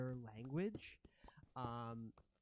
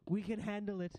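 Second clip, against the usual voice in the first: high, loud creature voice; rat prince; 7 semitones higher, 5 dB louder, faster than usual. Acted. Rat prince insisting to the ghosts, high eager creature voice.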